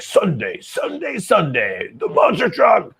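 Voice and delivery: booming announcer, rising to a shout; monster truck ad. Retold or imitated. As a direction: hype it like a monster truck rally ad. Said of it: "the commercial would be like".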